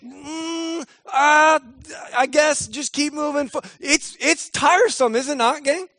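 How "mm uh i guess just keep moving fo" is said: higher, worn-out trailing groan; weary sigh. Retold or imitated. Voicing a tired believer in week four, mock weary. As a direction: sound tired and done. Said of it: "Fourth week".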